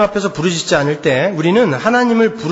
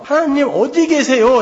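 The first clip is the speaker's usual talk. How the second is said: drawn-out, higher plea; crying out to God; 6 semitones higher than usual. Acted. Preacher voices David seeking God, mild cry. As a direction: call out slowly for a missing God. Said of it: "라는 부르짖음이었어요".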